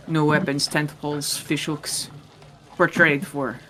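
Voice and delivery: lightly voiced Russian accent, broken English. Nomad trader pitching to the party, mild Russian accent. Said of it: "by which I mean Russian".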